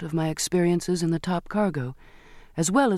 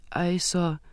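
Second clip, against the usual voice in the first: hushed, breathless whisper; scared girl whispering to the captain; frightened whisper. Acted. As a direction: barely dare to say it.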